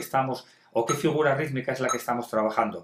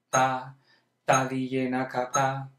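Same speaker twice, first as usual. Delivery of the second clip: monotone burst of five, then a held beat; quintuplet and quarter; slower than usual. Shown as a demonstration. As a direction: alternate quick fives with one "ta". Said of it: "Ahora estoy haciendo un cinquillo y una negra".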